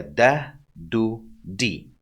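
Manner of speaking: plain light d with each vowel; light dal. Shown as a demonstration. Teacher showing learners the dal, light d sound. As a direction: say "da, do, di" with a light, non-emphatic d. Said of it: "we have a dal, which sound like".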